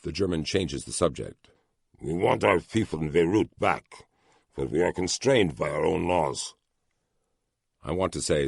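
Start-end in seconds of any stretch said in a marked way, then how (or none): 2.0-6.5 talking through a mouthful; words round a bite of food; mouth full. Acted. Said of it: "Through a full mouth".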